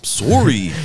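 loud, high mock-Canadian "SORE-ee"; Canadian accent. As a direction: belt out an exaggerated Canadian "Sorry". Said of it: "sorry like a Canadian".

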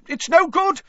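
high, loud desperate yell. A narrator's reading. Wizard yelling to the other keepers, loud and high. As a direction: shout it over the dragon's roar. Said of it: "yelled another wizard".

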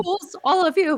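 high theatrical witch sneer; scornful witch at the gallows. Pretend. Witch quote from Hocus Pocus.

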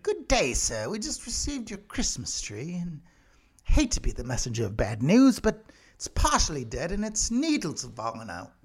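lightly voiced formal English complaint, high on "Good day"; a hint of a stiff British gentleman delivering bad news; mock posh Brit. Britain complaining about dead tree.

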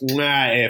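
exaggerated kissing smack; chef's kiss. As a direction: imitate a chef's kiss, "mwah". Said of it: "a chef's kiss".

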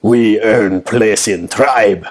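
slow, pointed declaration; a hint of a solemn warrior; lightly voiced tribal vow. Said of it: "he looks right at you, Ingrid".

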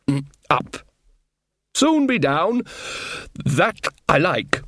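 slow, nervous dwarf. Acted. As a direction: plead as the airsick dwarf.

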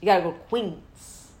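loud, slow, drawn-out recommendation; imitating brother. Sister mimics brother recommending a restaurant, loud drawn-out voice. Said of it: "It would be like".

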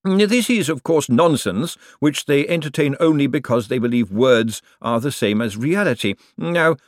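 high, scornful banker voice; withering put-down. A narrator's reading. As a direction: cut him down with sarcasm. Bent's sarcastic rebuke of Moist.

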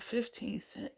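retelling a bargain in shock; stunned disbelief. Retold or imitated. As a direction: say the price like you can't believe it. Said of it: "I couldn't believe it".

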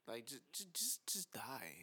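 hissed whisper, just die; a whispered mock curse. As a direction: breathe it out under your breath, just die. Wishing Trump off the screen.

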